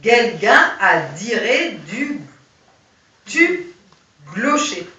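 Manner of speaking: slow, drawn-out German accent; reading the line in a slow German accent. Shown as a demonstration. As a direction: spell it out in a German soldier's accent. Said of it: "c'est écrit".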